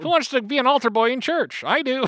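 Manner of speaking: put-on high, loud eager kid greeting; thirteen-year-old kid. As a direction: greet like an excited young teen. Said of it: "I'm thirteen-year-old Darce".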